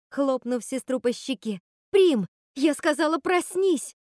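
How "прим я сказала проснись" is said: high, loud command; требовательный крик. Acted. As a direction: shout her awake. Требует проснуться, хлопнув по щеке. (Готель громко и высоко приказывает сестре проснуться)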